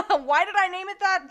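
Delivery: asking through a laugh. Real, not acted. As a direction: laugh while you ask. Laughing at own story.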